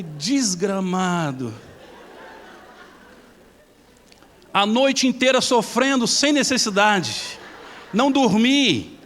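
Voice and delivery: hammed-up indignation at a wasted night; exasperated outburst. Exasperated realization after sleepless night.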